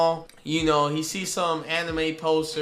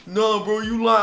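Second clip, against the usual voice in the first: mock surprise; 4 semitones higher, 5 dB louder, slower than usual. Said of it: "He go like".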